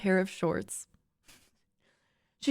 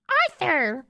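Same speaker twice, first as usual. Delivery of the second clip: higher, a bit louder name call; high pitch; 6 semitones higher, 4 dB louder than usual. Acted. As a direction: sing his name up high. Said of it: "she said in a high pitch".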